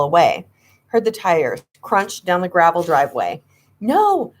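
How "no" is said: shout. A narrator's reading. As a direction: cry out after the leaving car. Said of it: "I shouted".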